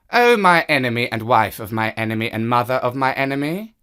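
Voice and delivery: the smug cat claiming his place. Acted. Cat voiced in the story.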